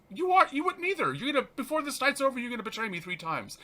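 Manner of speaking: Jesus answering Peter, high and pointed; Jesus warning. Retold or imitated. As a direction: tell him gently but firmly he'll fail. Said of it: "And Jesus says".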